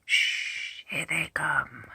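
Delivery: hushed whisper, low and soft. Acted. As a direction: whisper so they won't hear. Bandits hiding in tunnel.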